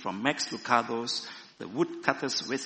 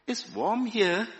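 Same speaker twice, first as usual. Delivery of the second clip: slow, high, inviting call; 10 semitones higher, 5 dB louder, slower than usual. A narrator's reading. Fire builder to the people huddled away, slow invitation. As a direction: draw it out as an invitation. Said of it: "he invited".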